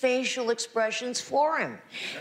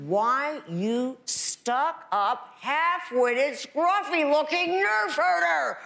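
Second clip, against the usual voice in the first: Leia insult line; 5 semitones higher than usual. Acted. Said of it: "tongue twisters like that".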